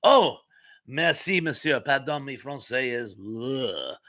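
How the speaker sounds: hammed-up French thanks; a hint of French accent; mock French accent. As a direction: play the Frenchman lightly. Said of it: "with that French accent".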